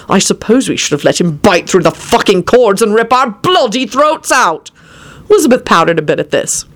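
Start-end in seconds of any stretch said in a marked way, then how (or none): 0.1-4.7 irritated retort, rising at the end; shouted. A narrator's reading. Quentin defending himself to Elizabeth, shouting. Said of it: "he shouted".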